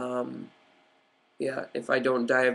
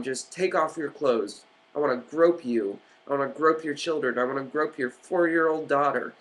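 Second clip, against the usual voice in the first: mocking airport security. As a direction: sneer it out like a pushy security guard. Mocking airport scanner officials.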